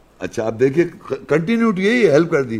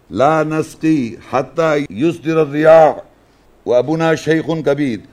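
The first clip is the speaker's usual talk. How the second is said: Quran recitation. Acted. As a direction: recite the verse solemnly, holding the long vowels. Recites Quran verses in Arabic. (عربی میں قرآن کی تلاوت)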